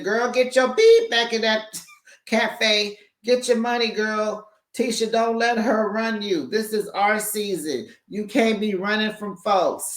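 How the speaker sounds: high, hyped-up coaching voice of a friend; Marceau's pep talk. Retold or imitated. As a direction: pump her up, girl. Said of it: "Marceau said".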